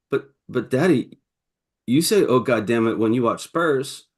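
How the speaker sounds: a hint of a sincere little girl; lightly voiced innocent daughter; sincere toddler. Dad quoting his daughter's sincere, innocent reply. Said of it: "without batting an eye, she goes".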